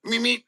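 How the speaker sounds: Roadrunner meep. Retold or imitated. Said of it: "the Roadrunner".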